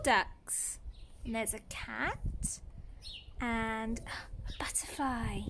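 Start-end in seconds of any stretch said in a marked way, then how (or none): 3.4-5.4 whisper. Pretend. Hushed describing picture.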